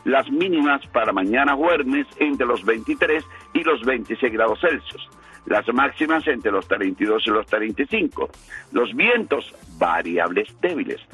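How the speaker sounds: steady radio forecast read; weather forecast read. Acted. Reads the weather forecast on air.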